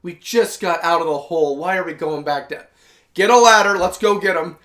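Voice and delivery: stern. Retold or imitated. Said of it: "with a stern face".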